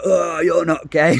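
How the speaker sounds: lightly voiced drag queen drawing out "Oh"; mock drag queen. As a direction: tease him playfully as a drag queen at the door. Drag queens at club door.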